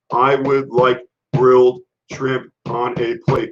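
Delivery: "I would like grilled shrimp on a plate" said slowly, every word crisp; slow enunciation. Shown as a demonstration. Showing how to order clearly, slow and deliberately enunciated. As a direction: spell it out word by word for the waiter. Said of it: "enunciate your words".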